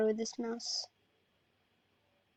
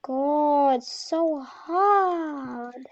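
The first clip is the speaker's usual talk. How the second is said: loud, raised, exasperated complaint; real gamer exasperation; frustrated groaning complaint; 2 semitones higher, 4 dB louder, much slower than usual. Real, not acted. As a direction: complain loudly, stretching out the last word. Frustrated by a hard game.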